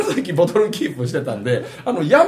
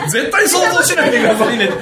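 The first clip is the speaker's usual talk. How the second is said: mock hypnotist; 8 semitones higher, 4 dB louder than usual. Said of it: "言うでしょ".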